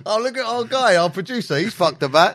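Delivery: laughing loudly while teasing; loud giggly teasing. Real, not acted. Laughing tease about producer.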